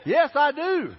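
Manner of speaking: hammed-up enthusiastic yes; emphatic yes. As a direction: gush out the agreement. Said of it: "And I was like".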